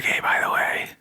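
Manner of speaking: God whispering in Moses' ear; conspiratorial whisper. Acted. God tipping off Moses about the neighbors, conspiratorial whisper. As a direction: whisper it like a confidential aside. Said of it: "like, whispering in Moses' ear".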